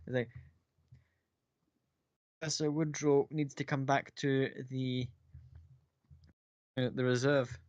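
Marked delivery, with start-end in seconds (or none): 2.4-7.6 a hint of a shaky messenger; nervous stammer. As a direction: stumble over the words, still shaken from the morning. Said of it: "guy starts stammering a little bit".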